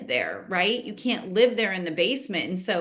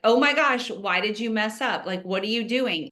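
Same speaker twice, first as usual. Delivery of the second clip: angry parent. Retold or imitated. Parent scolding a child over a spill, mock angry outburst. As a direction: snap at a kid who messed up.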